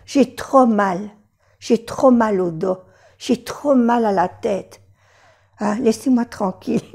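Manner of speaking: a touch of suffering, lightly acted; mock pained. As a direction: sound worn out by pain. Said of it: "cuando tiene mucho dolor".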